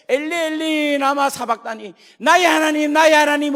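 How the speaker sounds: high, loud, slow anguished cry; anguished cry of Jesus. Acted. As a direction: cry out from the cross in agony. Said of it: "예수님이 십자가에 달려 돌아가실 때". (십자가 위 예수님의 절규)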